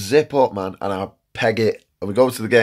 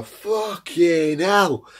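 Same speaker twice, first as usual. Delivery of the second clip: drawn-out high shocked curse; shocked swear; 9 semitones higher, much slower than usual. Retold or imitated. Mate finds the hat filthy, high slow disgusted curse. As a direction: recoil in disgust, dragging it out slowly. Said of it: "you just see him go".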